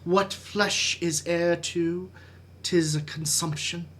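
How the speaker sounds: measured Shakespearean recitation with weighty pauses; dramatic soliloquy. Acted. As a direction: brood through Hamlet's soliloquy, letting phrases fall away.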